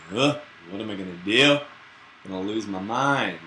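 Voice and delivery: mock-impatient inner grumble, groaning at the end; impatient grumbling. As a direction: play the fidgety person stuck in line. Impatient person in a queue.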